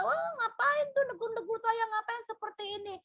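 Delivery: offended retort. Retold or imitated. Offended servant resents being corrected.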